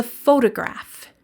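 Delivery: "photograph" stressed on PHO; "photograph" with a strong, clear opening syllable; first-syllable stress. Shown as a demonstration. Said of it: "The first syllable is stressed".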